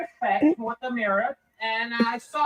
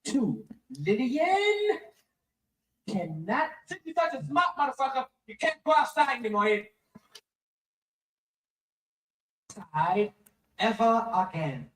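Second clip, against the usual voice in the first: put-on drunk dad laying down house rules; drunk father. Drunk father setting phone rules for his wife, slurring. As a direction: slur it like a drunk laying down the law.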